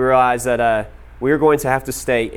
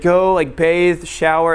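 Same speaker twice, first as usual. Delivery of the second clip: higher, louder imitated host; hearty urging; 4 semitones higher, 4 dB louder, much slower than usual. Swedish host sending guest to bathe, hearty urging.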